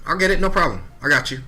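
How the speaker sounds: a touch of eager, high start; eager yes. Retold or imitated. Answering the vice president, eagerly. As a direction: reassure fast. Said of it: "I said".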